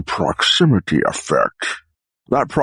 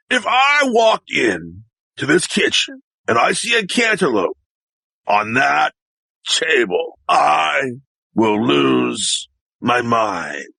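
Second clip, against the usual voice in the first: measured exasperated threat; 5 semitones higher, slower than usual. Acted. Acted threat, second take, more pauses.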